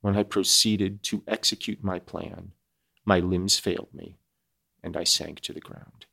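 measured audiobook reading with weight on key phrases; story narration. A narrator's reading. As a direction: read it out as a classic novel, deliberately. Reads the novel aloud.

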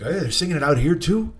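lightly voiced mild Canadian friend; understated puzzled question; Ken. Imitating Ken hearing fans outside, mildly puzzled Ken voice. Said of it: "I'm trying to get a Ken impression".

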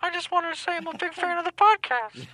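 tinny, like over a phone line. Real, not acted. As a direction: talk as if through a phone receiver. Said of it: "now you sound like you're on a phone".

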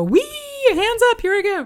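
high, loud thrill-ride squeal; roller coaster whee. Pretend. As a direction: throw your hands up and squeal.

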